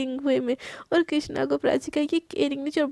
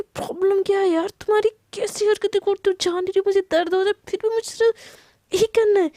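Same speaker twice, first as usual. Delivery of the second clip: pitched up, whining through back pain; high pained complaint; 4 semitones higher than usual. Acted. Husband whines at wife hurting his sore back, high and pained.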